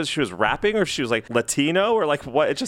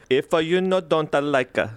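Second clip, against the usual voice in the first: mimicking a singer's quirky accent; odd lyric accent; slower than usual. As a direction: stretch it, slow and sing-song. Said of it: "is that an accent".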